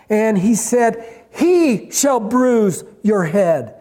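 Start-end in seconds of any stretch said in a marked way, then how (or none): 1.3-3.7 slow, deliberate "He shall bruise"; weighty, slow quote leaning on "He shall"; emphatic promise. Retold or imitated. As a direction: spell out the promise word by word, slowly. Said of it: "He promised emphatically with the words".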